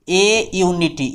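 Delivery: "ए यूनिटी" drawn out; slow answer. Shown as a demonstration. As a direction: stretch it out slowly. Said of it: "किसका use करेंगे".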